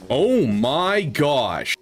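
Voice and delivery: slow, stretched amazement; drawn-out awe. Real, not acted. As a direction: let the oh hang in disbelief. Stunned by huge stats.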